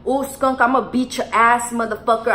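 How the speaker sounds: mock threat. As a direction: threaten your friend as if retelling it. Retold threat to friend.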